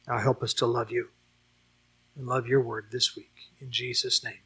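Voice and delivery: earnest public prayer, phrase by phrase; pastoral prayer. Real, not acted. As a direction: lead the congregation in prayer, pausing between petitions. Leads a closing prayer.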